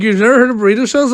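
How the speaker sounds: retold friend. Friend laughing, mock incredulous.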